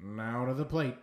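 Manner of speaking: lightly voiced announcer; understated play-by-play; baseball voice. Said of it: "think of the baseball voice".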